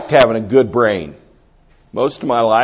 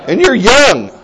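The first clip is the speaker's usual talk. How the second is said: mock compliment; 3 semitones higher than usual. Shown as a demonstration. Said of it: "We need to get good at saying".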